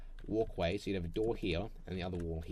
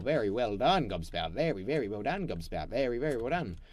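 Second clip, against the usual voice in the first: sing-song praise; 4 dB louder than usual. Pretend. Praising character.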